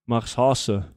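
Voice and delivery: Marshase said lightly in a German accent; a hint of German accent on Marshase; mild German accent. Shown as a demonstration. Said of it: "I'm doing it with a German accent".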